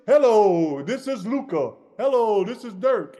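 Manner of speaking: playful showman introduction; mock presenter. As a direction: present the new star proudly. Mock introducing new star.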